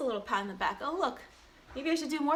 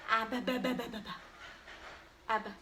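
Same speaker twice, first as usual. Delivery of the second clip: put-on baby babble; 6 dB quieter, faster than usual. Babbling to get baby to react.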